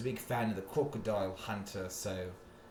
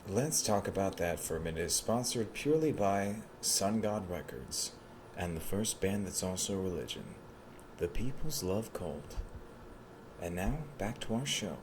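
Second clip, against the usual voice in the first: mock ad read. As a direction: read it like a cheesy radio ad.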